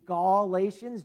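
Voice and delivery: "Galatians" drawn out, first syllable said like "Gaul"; Gaul-atians. Shown as a demonstration. Pastor showing the Gauls inside the name, "Galatians" said slowly as "GAUL-atians". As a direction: stretch the opening of "Galatians" into a clear "Gaul". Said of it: "G A U L, really, they're the Gauls".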